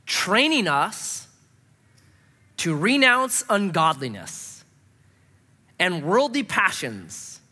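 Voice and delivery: slow, weighty reading of the verse; slow scripture reading. Shown as a demonstration. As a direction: read each phrase slowly, letting it land. Reading scripture verse slowly, emphatically.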